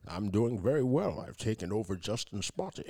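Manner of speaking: low, soft leprechaun-like brogue; Sean Connery voice. Acted. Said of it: "it's Sean Connery from the grave".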